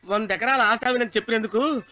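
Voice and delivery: low, apologetic plea; pleading prayer. Acted. Devotee asking the goddess for a good bride, pleading low. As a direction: beg the mother goddess for forgiveness.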